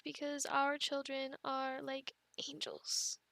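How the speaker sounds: slow whispered irony; sarcastic whisper. Real, not acted. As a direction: sell the angels line with a wink. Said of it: "maybe I was a little sarcastic".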